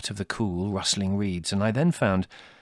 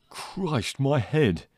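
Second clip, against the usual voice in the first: moaning; 4 semitones higher, much slower than usual. Acted. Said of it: "he moaned".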